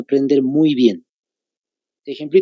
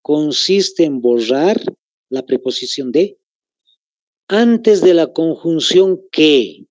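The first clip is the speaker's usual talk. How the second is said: slow dictation; slower than usual. Shown as a demonstration. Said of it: "Les vuelvo a repetir".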